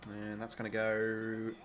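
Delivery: sportscaster energy calling the match; live footy commentary. Acted. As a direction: call the game like a TV commentator.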